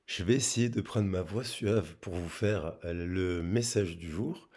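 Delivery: real hoarse voice from a cold; hoarse, husky voice. Real, not acted. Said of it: "la voix prise en ce moment".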